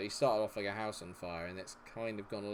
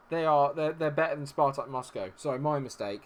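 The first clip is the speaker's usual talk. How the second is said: usual speaking voice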